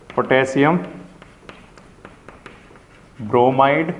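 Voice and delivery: word by word, long pause between; dictating while writing. Real, not acted. Teacher writing out the compound for students, dictating with long pauses. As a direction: say it piecemeal as you write it out.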